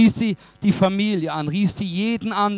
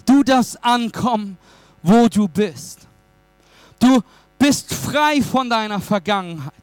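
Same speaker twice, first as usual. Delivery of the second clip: forceful declarations with deliberate pauses; emphatic preaching; 4 semitones higher, 3 dB louder than usual. Real, not acted. Preacher promising the congregation freedom from their past, emphatic. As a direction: drive each promise home, phrase by phrase.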